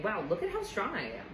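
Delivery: a lightly voiced, delighted self-encouragement; excited self-praise. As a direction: cheer yourself on. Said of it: "It meant that I was saying".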